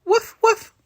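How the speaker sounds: high, loud playful woof; dog barks. Acted. Webby the dog agrees, barking high and loud. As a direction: bark like a little dog. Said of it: "Webby barks".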